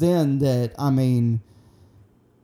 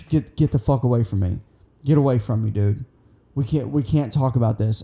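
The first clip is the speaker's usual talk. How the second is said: tag; 5 semitones lower, faster than usual. Retold or imitated. Trembling Charles refusing to talk.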